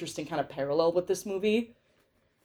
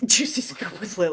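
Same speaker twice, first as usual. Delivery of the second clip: laughing title. Real, not acted. Repeats segment title laughing.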